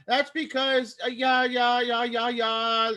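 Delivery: high, put-on German accent; bad German accent. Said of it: "My bad German accent".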